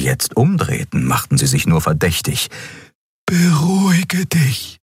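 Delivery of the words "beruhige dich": high, slow soothing voice; calm him down, high and slow; calming alien girl. A narrator's reading. Xia soothing tense Kero, high and slow. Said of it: "sagte die Draxül".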